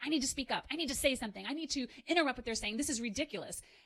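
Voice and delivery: restless, urgent voice. Acting out the mobilizing voice that wants to act fast: voicing the urge to act fast. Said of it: "It might sound like".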